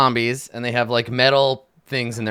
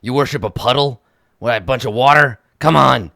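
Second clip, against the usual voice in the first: loud, boastful false god; Wongo voice; 2 semitones lower, 4 dB louder than usual. Acted. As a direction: brag like a jealous idol. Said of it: "Wongo's like".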